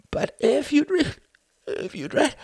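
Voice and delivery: high, halting voice breaking down; breaking into sobs. A narrator's reading. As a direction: stammer as the sobs take over. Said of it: "The voice broke down into sobs".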